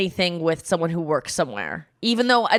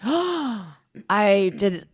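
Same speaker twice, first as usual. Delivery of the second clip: mock surprise; much slower than usual. Imitating the guy realizing.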